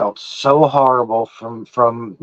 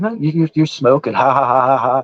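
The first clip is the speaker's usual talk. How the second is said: retold teasing. Ex-husband needling his stoned ex-wife, retold teasing. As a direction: tease her, then tack on a ha-ha laugh.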